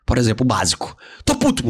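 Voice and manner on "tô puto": high burst of mock anger; hammed-up pissed-off choleric. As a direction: fume it out. Voicing an angry choleric.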